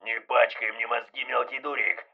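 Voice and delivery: yelling. Acted. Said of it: "Он орал".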